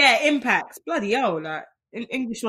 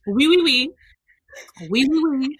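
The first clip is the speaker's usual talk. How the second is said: mock French accent; 3 semitones higher, 3 dB louder than usual. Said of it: "I was just practicing my French accent".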